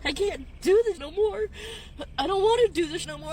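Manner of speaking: real tears breaking through the words; crying. Real, not acted. Woman venting in her car, crying. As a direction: let the sobs catch each line. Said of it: "cry my ass off".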